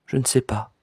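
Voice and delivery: softly murmured, unsure. A narrator's reading. Cousin admits she doesn't know, murmuring. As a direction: barely let it out. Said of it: "puis murmura".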